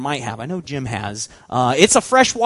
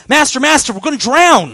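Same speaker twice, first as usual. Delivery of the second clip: frightened disciples; 8 semitones higher, 7 dB louder than usual. Acted.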